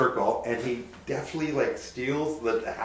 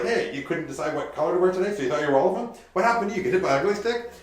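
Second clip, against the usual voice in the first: mocking roast; 5 semitones higher, 3 dB louder than usual. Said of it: "makes fun of each person around the circle".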